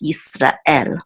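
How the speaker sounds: Yisrael said slowly, stress on the last syllable; careful Yisrael. Shown as a demonstration. Teacher correcting to the Hebrew form. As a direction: draw out Yisrael, end on El. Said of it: "it's not Yisrael, like, more like English".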